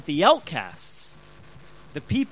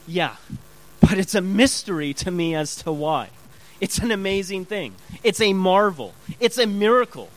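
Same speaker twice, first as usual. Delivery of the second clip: emphatic, marvelling testimony, building louder; acted amazement; 5 dB louder than usual. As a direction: marvel at your own conversion, punching each phrase. Acts awed born-again believer's answer.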